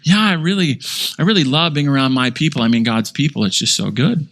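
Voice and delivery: a hint of syrupy fake piety; gushing false teacher. Preacher mimics false teacher's gushing.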